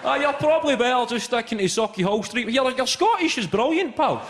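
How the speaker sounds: cheerful Glasgow driver humouring him; taxi driver reply. Retold or imitated. Glasgow taxi driver answering the tourist, broad and hearty. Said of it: "taxi driver replies".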